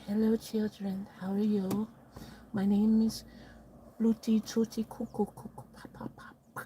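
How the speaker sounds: put-on high, silly children's-host voice; different character voice. Streamer trying out a different voice for the stream, silly character voice. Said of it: "I should use a different voice".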